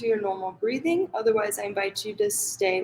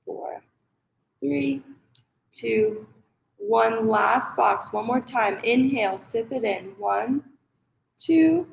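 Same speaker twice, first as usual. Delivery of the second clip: measured breath count, pause after each number; guided meditation. Acted. Yoga teacher counting parents through box breathing, measured guided meditation. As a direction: pace their breathing with evenly spaced counts.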